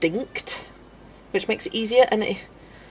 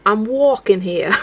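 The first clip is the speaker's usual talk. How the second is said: slow, slightly louder New York accent attempt; lightly done New York street accent; 5 dB louder, slower than usual. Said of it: "was it the New York?".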